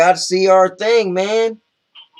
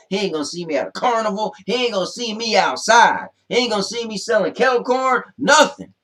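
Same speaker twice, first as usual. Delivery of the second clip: building boast; 5 semitones higher than usual. Real, not acted. Boasting rant about Stone Cold.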